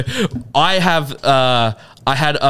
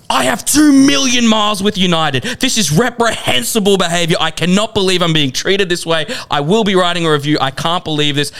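mock entitled passenger; 4 semitones higher than usual. Mocking entitled passenger's rant.

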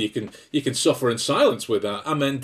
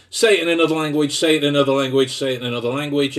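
inner brain voice; 4 dB louder, faster than usual. Retold or imitated. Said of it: "That was my brain going".

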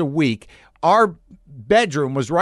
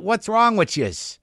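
higher, slow put-on Boston accent; 6 semitones higher, slower than usual. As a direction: lean into a jokey Boston accent. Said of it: "can talk like that".

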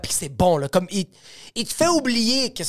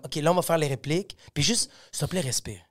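soft, low, calming advice; calm a nervous partner; gentle coaching; 4 semitones lower, 5 dB quieter than usual. Retold or imitated. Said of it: "fait comme".

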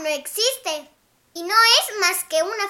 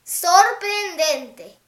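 slow amazement; 5 semitones lower, slower than usual. A narrator's reading. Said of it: "respondió el grufaló".

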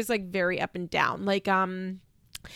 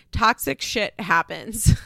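slow, amused repeat; 4 dB louder, slower than usual. Real, not acted. Podcaster relishing a cast member's quote, slow and amused. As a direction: savour each word slowly.

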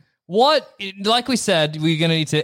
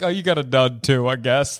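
unimpressed quote; 7 semitones lower than usual. Acted. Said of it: "I'd be like".

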